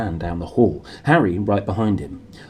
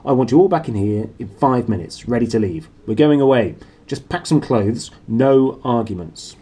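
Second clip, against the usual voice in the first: stern orders; 4 dB louder than usual. Acted. Vernon gives orders, louder.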